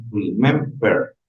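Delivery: "Remember" slowly, weight on MEM; stress on second syllable. Shown as a demonstration. Teacher locating the stress for students, slow "Remember" stressed on MEM. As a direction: lean on the middle of "Remember", syllable by syllable. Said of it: "En la segunda".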